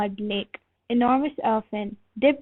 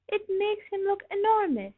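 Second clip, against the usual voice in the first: laughing; 10 semitones higher, 5 dB quieter than usual. A narrator's reading. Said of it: "laughed Ostrich".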